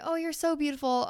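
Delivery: lightly imitated gushing friend; gushing complimenter. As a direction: play an admirer gushing. Voicing someone paying a compliment.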